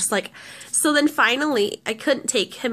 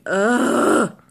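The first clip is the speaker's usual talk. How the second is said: imitated fed-up brother's groan; exasperated groan. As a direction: groan like a brother who can't retaliate. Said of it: "So he's just like".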